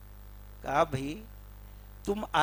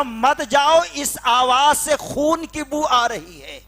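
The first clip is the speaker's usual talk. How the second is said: higher, louder pleading wife; wife's warning; 8 semitones higher, 10 dB louder than usual. Retold or imitated. Wife urges her husband not to go, pleading loudly. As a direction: she begs him not to go.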